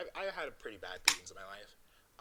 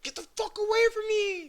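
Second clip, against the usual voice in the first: much higher, loud furious shout; retold angry yell; 11 dB louder than usual. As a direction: scream at the crowd to back off. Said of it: "And I was like".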